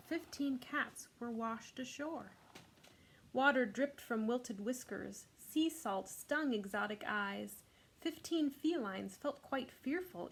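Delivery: rhythmic read-aloud of a rhyming picture book; reading to children. Acted. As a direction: read it to the class with bounce.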